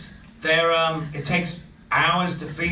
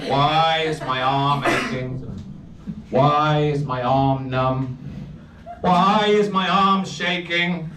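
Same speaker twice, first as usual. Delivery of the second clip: poet voice; 3 semitones higher, slower than usual. Acted. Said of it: "I have to put on a poet voice for this".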